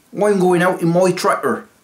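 put-on West Country accent. Trying out accents, you keep slipping into this one: West Country accent. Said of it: "West Country".

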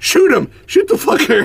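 very high-pitched, shrill, very loud scream. Recapping a chase scene, the speaker acts out a character screaming. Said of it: "he's just screaming".

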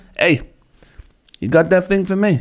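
put-on Italian gangster accent, mobster voice. Trying out an impression for a listener, the speaker does an Italian mafia gangster voice. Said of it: "The Italian mafia?".

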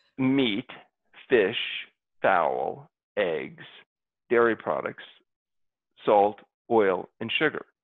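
measured, unhurried. Asked to say the list one more time, the speaker repeats it a little slower. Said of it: "one more time a little slower".

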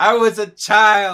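very loud, very slow, very high drawn-out shouting. Responding to a listener comment about childhood, yelling. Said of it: "Don't yell in the mic".

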